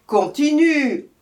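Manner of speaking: loud, high, slow command; stern order. A narrator's reading. Lioness ordering the hare to keep singing, stern. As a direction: bark the order down at him. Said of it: "ordonna la lionne au lièvre".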